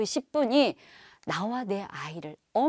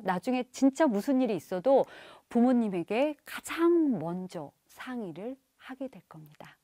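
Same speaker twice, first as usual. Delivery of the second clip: ordinary talk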